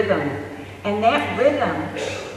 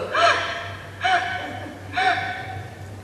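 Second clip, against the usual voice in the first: noisy wordless sucking gasps; high, breath-only suckling noise; imitated baby sucking; 4 dB quieter than usual. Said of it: "the baby starts sucking and goes".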